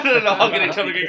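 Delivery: talking through laughter; fast, laughing. Real, not acted. Laughing while retelling the scene.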